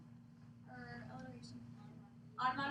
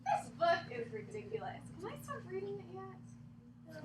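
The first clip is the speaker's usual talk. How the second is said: mock plea; 3 semitones higher, 4 dB quieter than usual. Reader mock pleads.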